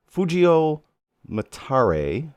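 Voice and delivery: name said with a slight Italian accent; a light Italian lilt on Matare, ending in a rise. Real, not acted. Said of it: "added a little bit of an Italian accent".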